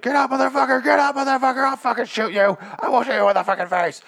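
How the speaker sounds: high, loud barking shout at a man on the shore; angry soldier yell. Retold or imitated. Soldier yelling at a washed-up man, loud furious shout. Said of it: "and she's like".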